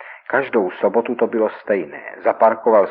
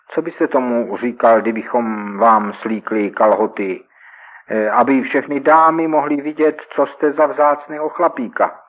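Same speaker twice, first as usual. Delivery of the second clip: taunting; 4 semitones higher, 5 dB louder than usual. Acted. Robbers taunt victim.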